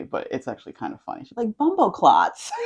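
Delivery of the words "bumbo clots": girlfriend's clumsy attempt at a Jamaican patois accent on "Bumbo clots"; laughing through a bad Jamaican patois imitation; mock patois. Quoting girlfriend's bad Jamaican patois, laughing. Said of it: "she tries to, like, mimic me".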